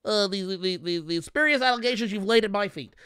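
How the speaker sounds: lightly voiced, stammering, prim indignation; stuffy flustered white guy. Mocking Eddie Murphy's white-guy bit, lightly stammering. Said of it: "He's like".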